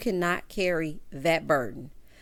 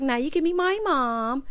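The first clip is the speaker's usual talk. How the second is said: put-on mildly excited, higher-pitched girlfriend; retold excitement; 5 semitones higher than usual. Host mimicking girlfriend about first check, mildly excited. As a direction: imitate an eager girlfriend, pitch lifted. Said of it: "So she all excited".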